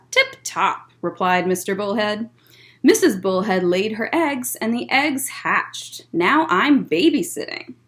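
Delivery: gentle storytime read-aloud; picture book voice for kids; reading to children. Acted.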